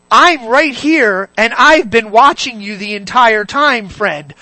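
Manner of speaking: lightly voiced stern friend, slow and loud; voiced Holy Spirit. Holy Spirit confronting a wayward friend, slow mock rebuke. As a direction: confront a friend slowly, stretching the words. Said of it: "He's the guy who's literally sitting there".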